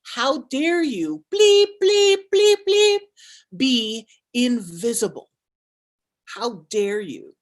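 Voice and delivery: imitating a woman cussing her out, drawn out; retold scolding. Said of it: "She said".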